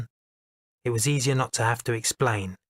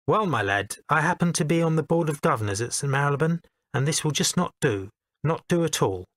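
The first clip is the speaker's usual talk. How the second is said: put-on Eton accent; 3 semitones higher than usual. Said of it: "in an Eton accent".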